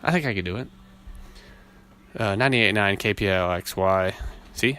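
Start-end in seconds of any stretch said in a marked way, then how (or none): 2.2-4.1 radio DJ try. Shown as a demonstration. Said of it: "I can be on the radio".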